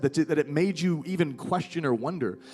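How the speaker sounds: mildly indignant, pitch lifted; righteous anger. Acted. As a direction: protest earnestly on the listener's behalf. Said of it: "He's just angry at the".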